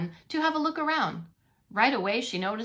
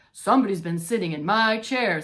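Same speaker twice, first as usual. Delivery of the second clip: gruff Papa Bear; 3 semitones lower, 5 dB louder than usual. Acted. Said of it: "said Papa Bear".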